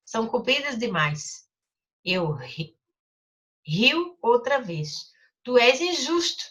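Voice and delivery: put-on storybook reading for children; teacher reading a story aloud. A narrator's reading. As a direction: read the story gently to the class. Reads the Little Prince aloud.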